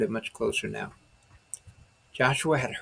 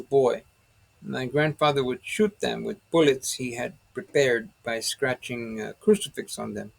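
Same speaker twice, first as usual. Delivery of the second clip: lightly voiced Spanish accent; a touch of a Spanish lilt, storytelling; 4 dB louder than usual. Sergeant recalls his grandfather in a Spanish accent. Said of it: "in a heavy Spanish accent".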